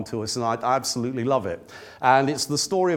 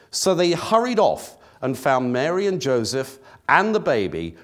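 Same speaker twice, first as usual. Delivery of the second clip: raised, measured Bible reading voice; scripture reading. Acted. Preacher reading Luke to the congregation, measured and raised. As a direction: read the Christmas passage to the church. Reads Luke chapter two aloud.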